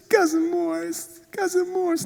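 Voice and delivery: put-on a frightened toddler tugging for attention; scared little boy. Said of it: "he looked up at me and he said".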